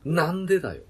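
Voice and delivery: high, loud Mimura-style retort; Mimura tsukkomi. Retold or imitated. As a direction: bark the comeback like Mimura. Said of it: "って".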